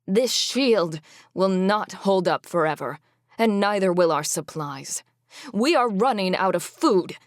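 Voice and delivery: loud, desperate plea; crying out. Acted. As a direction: urgently call out the danger. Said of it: "Sigrid cried".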